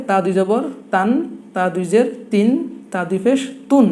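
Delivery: spell, then pronounce তান, তিন, তুন; tanween recitation drill. Shown as a demonstration. Teacher moving to the letter ta, drilling তান, তিন, তুন. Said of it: "এখন উচ্চারণগুলো কি হবে".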